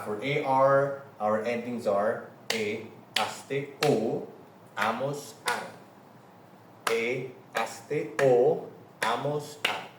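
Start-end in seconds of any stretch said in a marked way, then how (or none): 2.5-5.7 endings recited to a clapping beat; rhythmic recitation. Shown as a demonstration. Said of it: "You can clap". 6.9-9.9 slow, measured beat on each ending; rhythmic recitation. Shown as a demonstration. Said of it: "You can clap".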